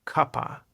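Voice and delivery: "cuppa", cup and of merged; linked as one word. Shown as a demonstration. English teacher shows learners the linking, "cuppa" as one word. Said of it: "cup and of sound like one word".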